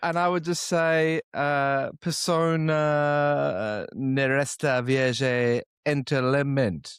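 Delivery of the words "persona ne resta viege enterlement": very bad French pronunciation, higher pitch. Answering a question with a phrase in french: very bad french pronunciation. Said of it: "It's the worst French I've ever heard".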